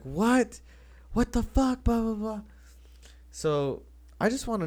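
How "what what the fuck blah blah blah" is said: high, louder, hammed-up outrage at his girl; mock angry boyfriend. Retelling the boyfriend's outburst when his girl left, in high mock fury. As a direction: squeak it out like a betrayed boyfriend. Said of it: "And he gets mad".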